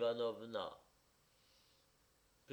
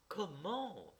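stupefied; 7 semitones higher than usual. A narrator's reading. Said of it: "fit-elle stupéfaite".

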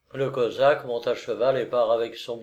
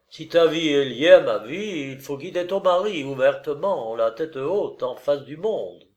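lightly voiced resolute lover, starting raised and settling; earnest lover urging; 3 semitones higher, 4 dB louder than usual. Lover asks married woman to leave husband, earnest. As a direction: urge it firmly, starting higher.

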